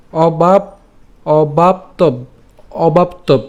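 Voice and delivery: "অবাপ্তব" built in pieces, pausing after each; built up piecewise. Shown as a demonstration. Teacher pronouncing up to the hasanta, piece by piece. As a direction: stop "অবাপ্তব" on a vowelless b. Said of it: "হসন্ত পর্যন্ত উচ্চারণ করছি".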